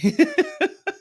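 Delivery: high bright burst of laughter; quick amused laugh. Real, not acted. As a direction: laugh at your own joke. Laughing after joke.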